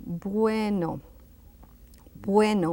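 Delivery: bueno with a gentle, barely closed B; very soft B. Shown as a demonstration. Teacher repeating bueno for learners, very soft B. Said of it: "a very soft B".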